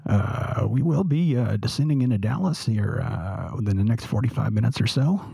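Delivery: lightly voiced airline captain; a hint of a captain on the intercom; pilot announcement voice. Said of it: "You have a pretty good captain voice".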